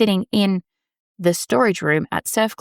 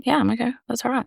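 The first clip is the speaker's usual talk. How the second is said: breezy okay; 6 semitones higher, much faster than usual. Retold or imitated. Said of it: "Happy for me is like".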